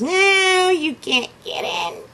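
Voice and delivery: high sharp little pig voice; defiant little pig. Acted. Little pig refuses the wolf at the door, high and defiant. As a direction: pig shouts back firmly.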